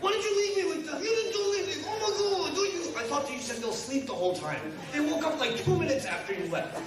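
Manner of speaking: put-on husband pleading with his wife after babysitting, high panicked whine; frazzled husband. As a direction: whine like a man drowning in kids. Overwhelmed husband voiced by speaker.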